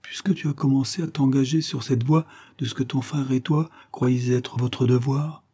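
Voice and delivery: lightly voiced grieving mother consoling; gentle lament, a touch of sorrow; compassionate motherly figure. Mother pities her daughter and Harry, compassionate lament.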